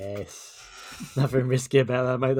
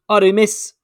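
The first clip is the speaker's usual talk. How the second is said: higher, louder pupil calling out; eager schoolboy; 10 semitones higher, 11 dB louder, slower than usual. Acted. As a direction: pipe up like a keen kid in class. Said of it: "little Johnny's hand straight up".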